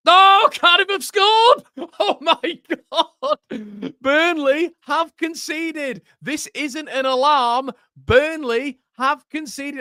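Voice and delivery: high, loud, slowed gleeful shouting with a laugh; delighted goal reaction. Real, not acted. Streamer crowing to viewers as Burnley concede, gleeful high shouting. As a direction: crow with joy as the rival concedes.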